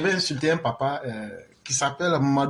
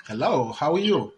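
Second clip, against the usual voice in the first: put-on English accent. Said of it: "I'm talking like, like an English person".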